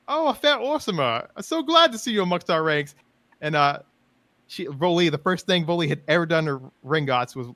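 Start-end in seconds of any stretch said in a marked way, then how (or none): 0.1-2.9 high, bright-eyed noble elf voice; posh elf greeting. Acted. Elf noble welcoming the sullen orc, high and gushing. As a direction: greet the orc like a delighted aristocrat. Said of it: "He's like".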